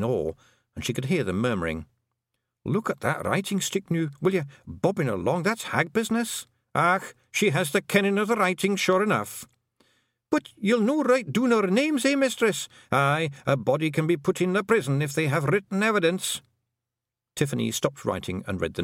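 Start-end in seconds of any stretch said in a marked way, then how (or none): 2.6-9.5 high, rough Scottish little man murmuring in awe; a wee Scots Feegle marvelling at writing. A narrator's reading. Feegles watching Tiffany write, awed Scots murmur. 10.3-16.4 high, rough Scottish little man murmuring in awe; a wee Scots Feegle marvelling at writing. A narrator's reading. Feegles watching Tiffany write, awed Scots murmur.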